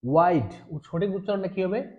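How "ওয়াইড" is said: Why'd as one syllable, ওয়াইড; contracted pronunciation. Shown as a demonstration. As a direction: model ওয়াইড with a firm falling tone. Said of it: "উচ্চারণ হবে কি?". (ওয়াইড, সংক্ষিপ্ত উচ্চারণ)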